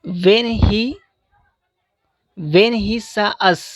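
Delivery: when he saw us with a rising tone; rising tone demo. Shown as a demonstration. Teacher demonstrating a rising tone to students. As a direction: let the voice lift at the end of us. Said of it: "ये rising के साथ में मतलब last में आवाज़ तेज हो जाती है".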